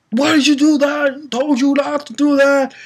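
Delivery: high, anguished wailing reproach; imitated screaming. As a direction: wail it out like a grieving son. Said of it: "And he's screaming".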